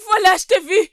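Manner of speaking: loud accusing shout; shouting to draw a crowd; yelling thief. Acted. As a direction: call out the thief for all to hear.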